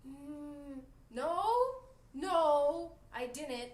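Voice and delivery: whiny denial. Retold or imitated. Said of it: "Jimmy's like".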